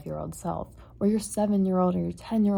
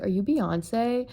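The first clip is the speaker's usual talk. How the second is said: slow, higher playful mock question; mock childlike question; 4 semitones higher, slower than usual. Kid teasing a stranger, slow and higher. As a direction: ask it like a goofy kid pranking a stranger. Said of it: "be like".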